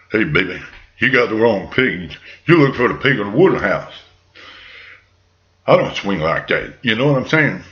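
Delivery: low-pitched, cool-talking pig; lightly voiced pig with an easy swagger; laid-back piggy. Pig brushes off the wolf at his door, laid-back.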